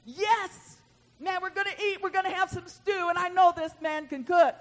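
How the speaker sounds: mildly hammed-up hungry anticipation; excited. Prophets thinking about the stew to come, excited.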